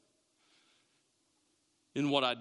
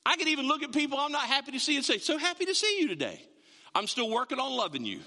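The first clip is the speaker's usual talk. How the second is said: fake cheer; 5 semitones higher than usual. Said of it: "fake a smile with the best".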